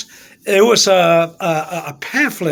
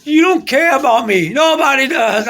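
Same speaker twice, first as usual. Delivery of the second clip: higher, aggrieved plea; mildly wailed self-pity; retold moody complaint; 4 semitones higher, slower than usual. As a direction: re-enact complaining up to God. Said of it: "I was in a kind of mood".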